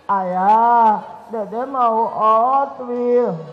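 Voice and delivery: put-on slow, low little-kid plea drawn out; mock child begging father for a toy. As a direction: beg like a small boy asking for a toy.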